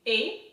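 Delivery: "A" as an isolated French é sound; lone demonstration vowel. Shown as a demonstration. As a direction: say "A" as a short pure vowel. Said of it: "So it makes".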